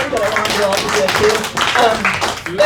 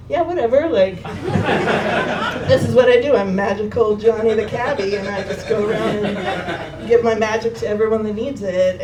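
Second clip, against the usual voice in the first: louder, laughing swagger; laughing cocky cabbie; 3 dB louder than usual. Retold or imitated. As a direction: brag it off with a laugh. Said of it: "he's like".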